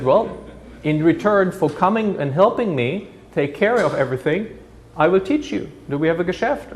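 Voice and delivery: hint of a weary old man striking a deal; old Jewish community chair. Survivor offering the German youth a job, lightly voiced old man.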